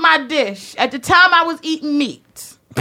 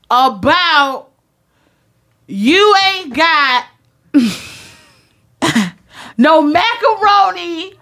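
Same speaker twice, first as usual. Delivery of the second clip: laugh-crying plea; much slower than usual. Retold or imitated. Pleading with the waitress.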